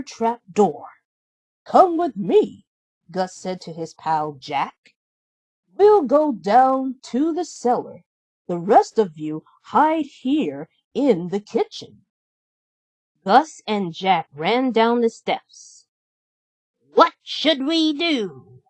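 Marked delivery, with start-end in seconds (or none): 1.6-2.7 high, loud squeaky mouse alarm; a little mouse crying out in alarm; high, urgent cartoon mouse; Gus the mouse. Gus voiced. 5.7-12.0 a little mouse crying out in alarm; high, urgent cartoon mouse; Gus the mouse. Gus voiced. 16.9-18.6 high, slow worried mouse; a nervous mouse asking his pal; higher, unsure little mouse; Jack the mouse. Acted.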